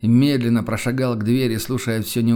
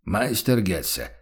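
hesitantly stern; slower than usual. Acted. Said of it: "с нерешительной строгостью окликнул".

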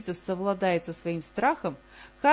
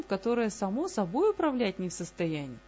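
ordinary delivery

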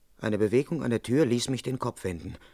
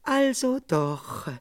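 quiet knowing remark; 10 semitones higher, much slower than usual. A narrator's reading. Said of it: "Dann sagte sie nur".

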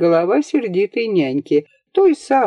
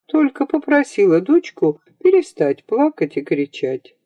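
usual speaking voice

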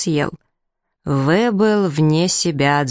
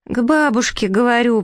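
high-pitched naive echo; prince parroting; 7 semitones higher than usual. A narrator's reading. Prince echoes the prompt toward the bushes, parroting high. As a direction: repeat the prompt blankly in a higher voice. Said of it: "повторил принц".

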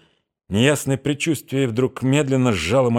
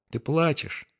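high, soft and compassionate; tender; 7 semitones higher, 6 dB quieter, slower than usual. A narrator's reading. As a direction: say it with tender pity. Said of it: "нежность и сострадание".

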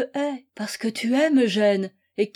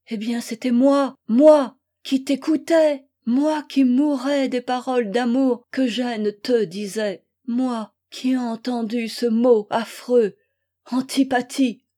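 anguished accusation; 4 dB louder than usual. Acted. Wife confronts rival with what she overheard.

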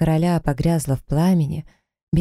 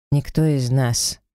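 clipped; slower than usual. Acted. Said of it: "отчеканил офицер под маской".

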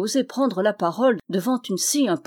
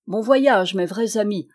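a raised, slightly louder farewell call; 4 dB louder than usual. Acted. The Norman calling to his rivals, a louder farewell. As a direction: call after them as they ride off. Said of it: "leur cria le Normand".

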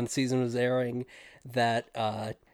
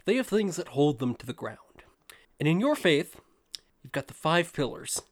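lightly voiced Don Draper pitch; smooth ad-man pitch, lightly done; 2 semitones higher than usual. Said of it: "I don't really have a good Don voice".

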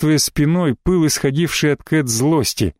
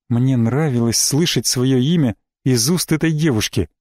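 ordinary delivery

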